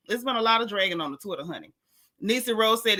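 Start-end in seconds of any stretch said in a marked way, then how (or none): 0.1-1.7 fast sassy repeat. Real, not acted.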